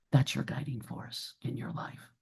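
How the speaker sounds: soft breathy whisper, nearly voiceless. Real, not acted. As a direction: lean in and whisper it like a secret. Reflective point to parents.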